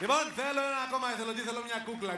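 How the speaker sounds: high, quick call to the audience. Real, not acted. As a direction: summon a volunteer from the crowd. Calls out for a volunteer.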